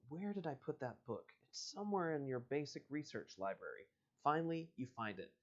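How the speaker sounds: reading the book's dialogue aloud; story reading. Acted. Host reading a choose-your-own-adventure to listeners, storyteller voice. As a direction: read it like an adventure book. Reads the next chapter.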